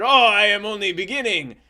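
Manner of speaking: high, loud comic French boast; hammed-up French hero; Jacques de Gatineau. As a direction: announce it grandly in a put-on high voice. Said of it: "that's how he talked".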